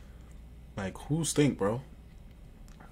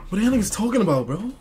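high, swooping objection; indignant high-pitched challenge; incredulous protest; 9 semitones higher, faster than usual. Real, not acted. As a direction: push the pitch way up in disbelief. Objecting to a chat comment just read.

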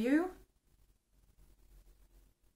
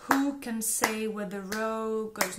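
rhythm drill, slow start. Shown as a demonstration. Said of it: "I will go faster and faster".

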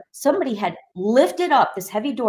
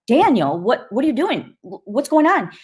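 higher and louder, frightened calling his name; alarmed calling out; 5 semitones higher, 4 dB louder than usual. Retold or imitated. Sister scared by brother's hateful stare, alarmed calling out. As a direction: call out to him in alarm.

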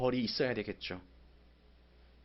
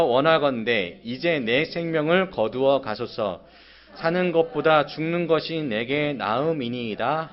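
slow, louder, begging to die; bitter plea; 6 dB louder, slower than usual. Acted. Jonah begging God to take his life, slow and bitter. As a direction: drag each word out in bitter protest. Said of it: "내가 요나가 된 것처럼 한번 읽어보겠습니다".

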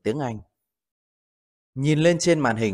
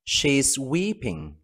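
slow model reading; 3 dB quieter, much slower than usual. Shown as a demonstration. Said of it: "Ví dụ, cô ấy đang khóc".

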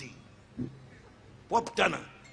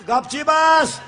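louder shouted command; bellowed order; 5 semitones higher, 9 dB louder, much slower than usual. Retold or imitated. Doctor to the boy, a loud order. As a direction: bark it like a drunk doctor. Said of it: "doctor orders".

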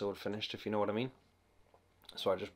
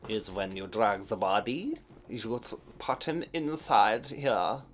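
slow, louder hammed-up German accent; weird German voice; 2 semitones higher, 4 dB louder, slower than usual. Gamer explaining a body dump in mock German accent. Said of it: "that weird German voice".

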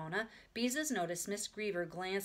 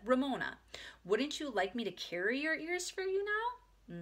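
coaxing whisper; 7 semitones higher than usual. A narrator's reading. Beezus offers to carry the ears, coaxing whisper. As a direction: coax a small child in a whisper. Pleading quietly at the library.

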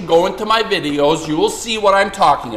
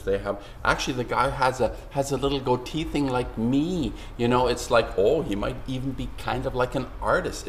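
a hint of calm, soft expert talk; mock reasonable voice; 4 semitones lower, 6 dB quieter than usual. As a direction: lightly imitate a soothing, reasonable-sounding pundit. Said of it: "they talk like this".

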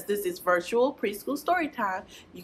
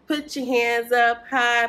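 a bit louder, slower; a little louder; 3 semitones higher, 4 dB louder, slower than usual. Shown as a demonstration. Teacher repeats the song for the kids, a little louder. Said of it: "but a little louder".

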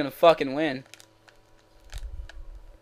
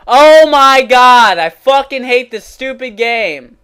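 loud, raised-voice rage, easing as it goes; explode, then keep seething; pissed off; 4 semitones higher, 11 dB louder than usual. Real, not acted. Gamer cursing the game, pissed off. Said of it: "I'm gonna get pissed".

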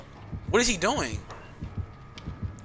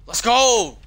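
loud excited shout; excited cheer; 4 semitones higher, 9 dB louder than usual. Real, not acted. Cheering near escape.

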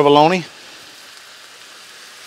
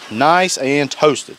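slow, stretched-out "Nice and toasted"; slow savoring drawl; 3 semitones higher, much slower than usual. Real, not acted. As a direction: draw the words out, savoring them. Repeats it, even slower.

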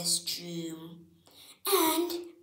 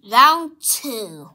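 announcer shout; 3 semitones higher, 16 dB louder than usual. Acted. Announcer calls round.

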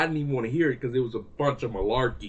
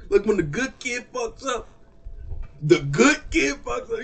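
disappointed parent; 7 semitones higher than usual. Acted.

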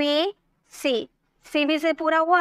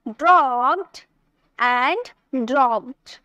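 slow demo; 3 semitones lower, much slower than usual. Shown as a demonstration. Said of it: "तो बोल देंगे".

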